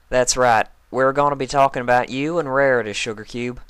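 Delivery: lightly voiced country pony; Applejack voice. A narrator's reading.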